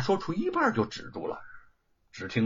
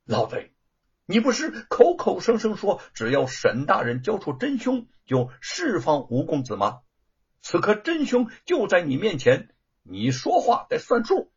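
higher and louder, cold hard demand; icy demand; 5 semitones higher, 3 dB louder than usual. A narrator's reading. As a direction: hold him to his word with contempt. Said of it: "凝如寒霜". (冷峻、愤怒地质问)

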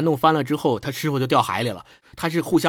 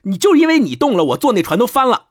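higher, louder, retelling a master's furious scolding; angry scolding; 8 semitones higher, 6 dB louder than usual. Retold or imitated. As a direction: scold him sharply, catching him in the lie. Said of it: "然后那师傅就骂他". (师傅怒气冲冲地大声斥责)

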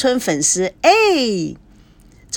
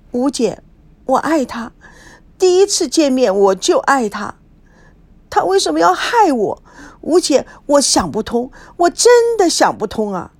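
a hint of crying, rising higher; mild tearful voice; 4 semitones higher than usual. Wife tearfully telling her friend she loves him, lightly tearful. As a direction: pour out the hurt to her friend. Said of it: "孙娜哭声哭调地说".

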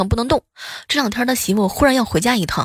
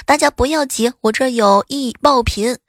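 shouting; 3 semitones higher than usual. Acted. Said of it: "有一个人大喊".

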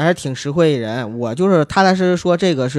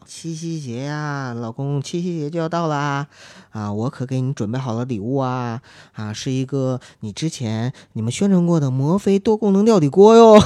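wife voice; 2 semitones lower than usual. Retold or imitated. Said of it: "九嫂啊，就最近天天点我".

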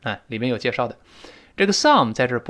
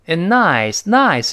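and nice with nice hit hard; nice stressed, and reduced; 4 semitones higher, 4 dB louder, slower than usual. Shown as a demonstration. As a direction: lean on nice, pass over and. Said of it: "nice是重读的".

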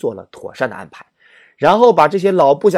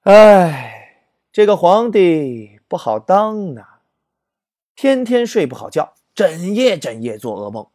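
a loud sighing "哎", then slow and troubled; the emperor sighs out his worries to old comrades; long weary sigh; 4 semitones higher, 4 dB louder, slower than usual. Acted. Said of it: "赵匡胤长叹一声". (长叹一声，愁苦地诉说)

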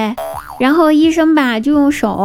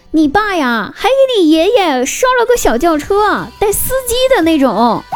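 higher, lightly voiced mom; a hint of a chatty mom; 4 semitones higher than usual.

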